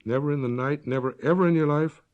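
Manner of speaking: lightly voiced stern sister, building to a sharp demand; cold voice. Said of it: "The cold voice announced".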